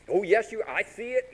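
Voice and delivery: high, singling-out tease; teasing mom. Retold or imitated. Mom teases her pouting kid, high playful voice. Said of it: "My mom would do this".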